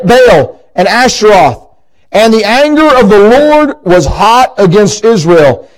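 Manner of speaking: measured, solemn Bible reading; scripture reading. Acted. Preacher reading the judges passage to the congregation, solemn.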